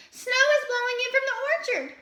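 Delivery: high, loud, alarmed fox voice; gasping Fletcher. A narrator's reading. Fletcher alarms Squirrel, high and loud. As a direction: gasp out the news in a high voice. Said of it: "gasped Fletcher".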